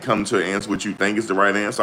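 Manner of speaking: fast, dismissive rattling off of Come to an answer; mocking rushed version. Host mocks lawyer's weak line, fast and dismissive. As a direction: gabble it like a throwaway line. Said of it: "Don't be like".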